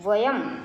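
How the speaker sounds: वयम ending on a clear half m; वयम with the m fully sounded; said as vayam. Shown as a demonstration. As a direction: pronounce वयम as va-yam, closing on m. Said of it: "वयम क्योंकि अंकी बिंदी लगी है".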